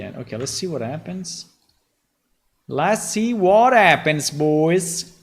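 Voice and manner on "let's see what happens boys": excited. Real, not acted. Excited announcement to chat.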